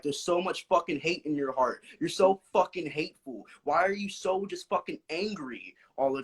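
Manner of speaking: lightly voiced mother's rebuke; imitating an upset mom telling him he's hateful; mom scolding. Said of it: "my mom came in and she was like".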